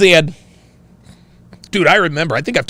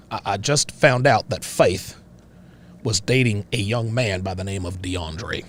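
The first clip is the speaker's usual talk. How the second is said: Cletus backwoods voice. Acted. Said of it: "Call that voice Cletus".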